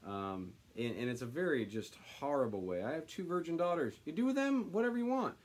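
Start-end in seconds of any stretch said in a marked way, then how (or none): 2.8-5.3 mock offer. Lot offering daughters.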